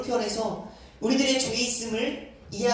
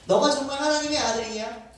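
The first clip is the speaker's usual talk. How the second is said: mocking; 4 semitones higher, 3 dB louder than usual. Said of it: "많은 사람들이 조롱하기 시작해요".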